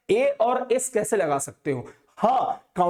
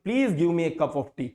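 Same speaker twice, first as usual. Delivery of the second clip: "Please give me a cup of tea" said very slowly and clearly; slow model sentence; much slower than usual. Shown as a demonstration. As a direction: say it slowly so kids can copy. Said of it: "ये बिल्कुल सही है". (धीरे और साफ़ आदर्श वाक्य)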